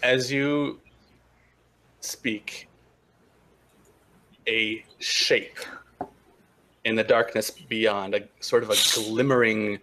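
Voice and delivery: slow, deliberate narration with long pauses; game master's scene setting. Acted. Game master describing glimmering figures to players, slow suspenseful narration. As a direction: unveil the scene piece by piece.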